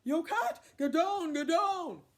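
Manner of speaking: high, loud shouted warning; urgent call. Acted. Leopard warning Cat from the bushes, urgent shout. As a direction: yell it from cover. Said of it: "dove for the bushes and called".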